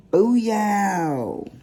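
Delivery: loud booyah. Real, not acted.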